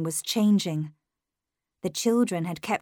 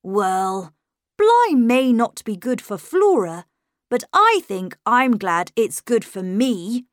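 put-on higher, louder well-mannered boy; charming little gentleman; 3 semitones higher, 6 dB louder than usual. A narrator's reading. Miles chatting to the governess, charming little gentleman. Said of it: "it was the charming little gentleman who spoke".

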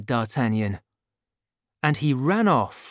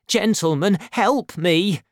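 high, louder desperate plea; crying for help; 6 semitones higher, 5 dB louder than usual. A narrator's reading. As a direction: beg the musketeers to save you. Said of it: "he cried".

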